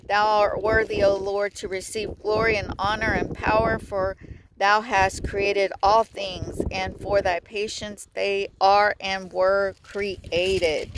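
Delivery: solemn scripture recitation; scripture reading. Acted. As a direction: read it out like a preacher.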